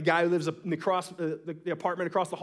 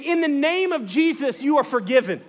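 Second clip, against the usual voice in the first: mock preaching; 7 semitones higher, 6 dB louder than usual. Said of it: "And so he is saying".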